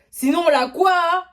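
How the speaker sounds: mock outraged disbelief. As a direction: echo the threat in shock. Reacting to threat in disbelief.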